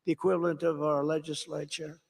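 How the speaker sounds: hammed-up sorry from a French president; apologetic Macron. Macron apologising to Trump about the tax, mock contrite.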